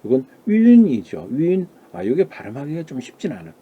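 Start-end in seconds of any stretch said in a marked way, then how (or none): 1.3-1.7 윤 spoken higher as a model syllable; pinyin pronunciation. Shown as a demonstration. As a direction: say 윤 clearly for the class. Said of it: "윤이라고 발음합니다".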